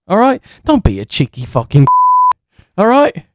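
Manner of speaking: put-on British lad accent, bruv; mock British geezer voice. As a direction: play a cocky British wrestler. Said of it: "trying to sound, like, British".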